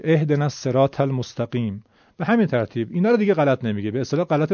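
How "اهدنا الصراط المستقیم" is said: Arabic verse read with Persian sounds; Persian accent. Shown as a demonstration. Teacher giving another example of a student's Persian-accented reading. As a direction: keep the recitation plainly Persian-accented. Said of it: "لهجهش کاملاً فارسی".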